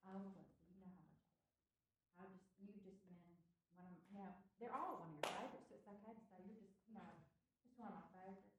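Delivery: gentle, softened correction. Shown as a demonstration. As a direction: ease it down tenderly for a girl. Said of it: "let me tell you how I soften it up".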